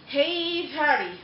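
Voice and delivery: mock yell at no real volume; retold yell. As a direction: imitate someone calling across a parking lot. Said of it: "they had yelled that".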